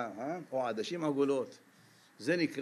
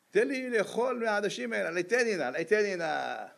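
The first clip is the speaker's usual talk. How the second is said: one run-on demand, falling back as it repeats; hungry, pressing plea; insistent begging; 4 semitones higher than usual. Retold or imitated. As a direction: imitate an impatient plea for food, starting high. Esau demands the lentil stew.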